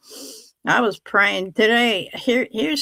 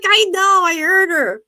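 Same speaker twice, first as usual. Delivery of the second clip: much higher and louder, laughing through it; exasperated laughing reply; 10 semitones higher, 6 dB louder than usual. Retold or imitated. Mother answers her son about the phone voice, high and laughing. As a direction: snap back at him but you're cracking up.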